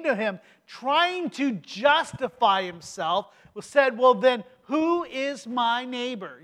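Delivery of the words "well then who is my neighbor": whining. Retold or imitated. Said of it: "hear the whining in his voice".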